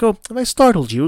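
high, fast, teasing villain voice; mocking villain. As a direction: taunt like a smug villain. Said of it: "He's like".

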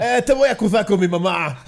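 quejica burlón, más agudo; niño acusón. Acted. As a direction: imita a un chillón que amenaza con acusar. Imita al otaku golpeado acusando. (voz aguda de niño acusón)

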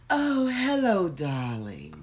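high, slow, gushing hello; phony sweet voice. Retold or imitated. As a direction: gush like a thrilled mother. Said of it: "she would call and she would go".

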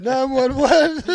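high, slow mock alarm; mock panic. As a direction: drag out a mock emergency cry, high. Mock alarm after creepy line.

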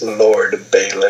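slow, measured naming of the accused; cold accusation. Retold or imitated. Sansa turning to Littlefinger in court, slow cold accusation. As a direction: let the name land slowly like a verdict.

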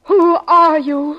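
backing away in fear; frightened demand. Acted. Wife suddenly fears him.

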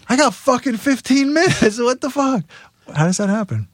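high panicked rant. Retold or imitated. Getting dressed for a festival, panicked. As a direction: suddenly realize time's gone.

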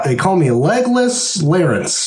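character voice. Acted. Legless prisoner voiced.

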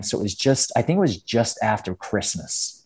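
put-on American accent; Australian imitating American speech. Shown as a demonstration. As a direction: keep up the American act. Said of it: "an American accent for me".

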